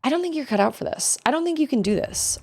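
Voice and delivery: kind. Shown as a demonstration. Showing a kind way to discourage someone, gentle. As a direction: break it to them gently. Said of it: "there's still a kind way to say".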